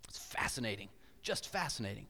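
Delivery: hushed, soft whisper; whispered awe. Real, not acted. Preacher marveling at Humans of New York, whispering. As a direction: breathe the word in wonder.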